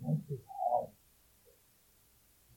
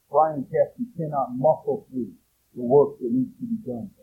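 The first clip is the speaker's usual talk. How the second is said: louder, pressing preacher's push; raised preaching voice; 6 dB louder than usual. Real, not acted. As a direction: drive the line home with force. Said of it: "I'm sorry, the lower my voice".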